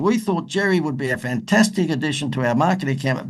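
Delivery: put-on lightly done broad Australian Crocodile Dundee accent. Leaving a phone message for a Hollywood manager, mild Crocodile Dundee accent. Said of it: "I put the best Paul Hogan Crocodile Dundee accent on".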